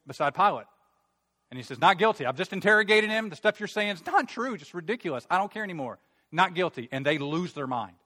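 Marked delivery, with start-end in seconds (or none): 1.8-6.9 high, loud, fed-up insistence; raised voice, impatient and emphatic; exasperated protest. Acted. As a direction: push back at an unreasonable crowd. Acts out Pilate losing patience.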